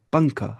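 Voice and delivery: پنکھا with the n hidden in the nose; nasal ng example. Shown as a demonstration. Teacher demonstrating ikhfa with پنکھا, nasal ŋ. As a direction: say پنکھا with a nasal ŋ, no tongue tip. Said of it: "جسے ہم بولتے ہیں".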